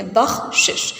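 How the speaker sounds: بخشش split as "bakh-shish", a stop after kh; careful vowel marks. Shown as a demonstration. Teacher models the word for students, بخشش as "bakh-shish". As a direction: say بخشش in two clear parts, "bakh" then "shish". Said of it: "ایک شین کے نیچے زیر".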